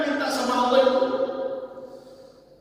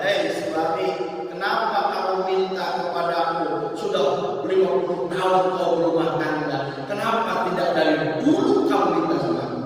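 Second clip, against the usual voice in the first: lowered divine voice; 5 semitones lower than usual. Retold or imitated. Allah answers the husband.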